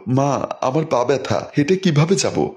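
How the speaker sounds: a put-on whimper, slowed and childish; fake crying. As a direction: pretend to cry to get carried. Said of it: "ন্যাকা কান্না করে বলল".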